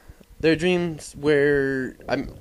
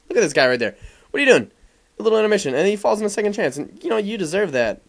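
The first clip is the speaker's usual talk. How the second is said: sudden high, loud gamer reaction; excited outburst; 8 semitones higher, 6 dB louder, faster than usual. Real, not acted. Reacting to a player on screen, loud and high with excitement. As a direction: yell at the guy on screen, amazed.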